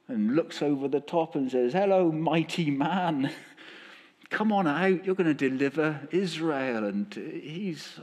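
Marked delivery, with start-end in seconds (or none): 1.7-6.8 an angel cheerfully calling Gideon out. Retold or imitated. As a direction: hail him up out of the pit. God calls Gideon out of pit.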